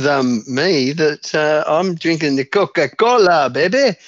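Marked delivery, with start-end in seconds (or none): 1.7-4.0 "Coca-Cola, baby" in a put-on foreign accent; overdone foreign pronunciation. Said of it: "Why did you say it like that?".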